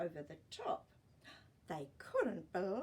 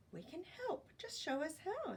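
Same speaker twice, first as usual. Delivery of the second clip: self-important; 9 semitones higher than usual. Acted. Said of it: "full of self-importance".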